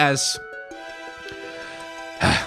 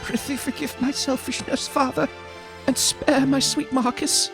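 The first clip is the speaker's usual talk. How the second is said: high, hushed, pleading maiden; soft princess voice; 9 semitones higher, 4 dB quieter than usual. Acted. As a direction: beg softly like a tragic princess. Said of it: "I'm mixing up the voices here".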